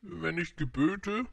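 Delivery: high, slow royal pronouncement; stately storybook monarch; pompous king. A narrator's reading. Voices the king's usual saying.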